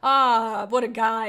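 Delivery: mock party guest. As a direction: call it out like the crowd loving him. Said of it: "They're just".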